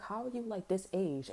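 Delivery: high-pitched mock disbelief; retold exasperated jab at mom; incredulous scolding. Acted scolding of own mom.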